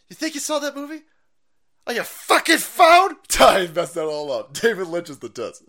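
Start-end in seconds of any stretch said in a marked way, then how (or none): 0.1-3.1 incredulous yell. Real, not acted. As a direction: drag out the outrage on phone. Ranting at phone viewers.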